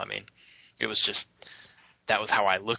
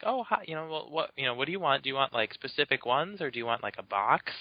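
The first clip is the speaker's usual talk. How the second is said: lightly voiced higher, sweet saleswoman; friendly shop lady; 5 semitones higher than usual. The card shop lady answers a kid caller, a hint of a high sweet voice. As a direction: chirp it like a helpful clerk. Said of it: "She's like".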